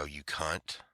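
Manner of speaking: a private insult, barely spoken; inner thought. Retold or imitated. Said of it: "In my mind".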